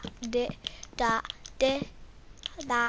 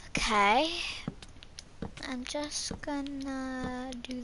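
whisper; 6 dB quieter, slower than usual. Real, not acted. Whispered after laugh.

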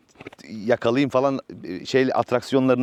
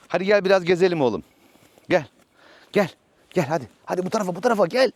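calling the horse; 5 semitones higher, faster than usual. Real, not acted.

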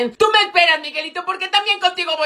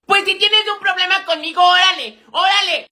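higher-pitched challenge to a fight; reto peleonero; 4 semitones higher than usual. Acted. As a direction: square up and dare a classmate, voice raised. Reto antes de una pelea. (reto agresivo a pelear)

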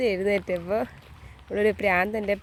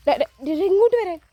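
much higher and louder yell at the cat; loud call; 9 semitones higher, 6 dB louder than usual. Real, not acted. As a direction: shout it across the yard. Yelling at the cat to come. (ഉറക്കെ ഉയർന്ന വിളി)

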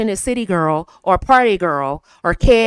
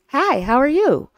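speaking with a smile; 4 semitones higher than usual. Shown as a demonstration. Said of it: "Notice the difference in how I sounded".

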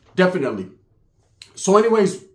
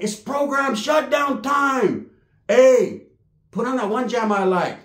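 mock announcement; 6 semitones higher, slower than usual. Announcing shutdown to wife.

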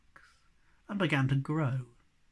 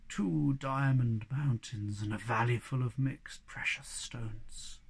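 lower, slow coaxing goblin, trailing to a whisper; low hobgoblin voice; 4 semitones lower, 3 dB quieter than usual. Acted. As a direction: tempt them like a sly old goblin. Hobgoblin bargaining softly.

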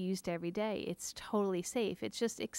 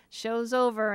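loud quote; 3 semitones higher, 8 dB louder than usual. Retold or imitated. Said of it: "Cliff tells me".

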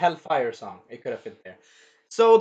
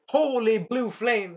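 slow, higher, drawn-out hype; dramatic emphasis; 4 semitones higher, slower than usual. Retold or imitated. Teller describes Alucard's sword moves, slow and dramatic. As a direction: stretch each word for spectacle. Excited retelling of sword attack.

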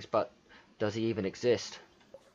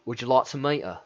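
put-on London accent, slightly raised; 2 semitones higher, 4 dB louder than usual. Player voices a courtier offering an introduction, London accent. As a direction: read it out in broad London. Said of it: "What the fuck kind of accent am I doing?".

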